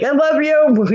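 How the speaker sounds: high-pitched sing-out; retold affectionate goodbye. Friend signing off before she crashes, high affectionate call.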